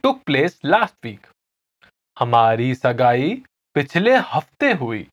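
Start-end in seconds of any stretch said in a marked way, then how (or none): 2.2-5.1 fast, natural हमारी सगाई पिछले हफ्ते हुई; natural pace. Shown as a demonstration. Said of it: "I'll say it again slowly".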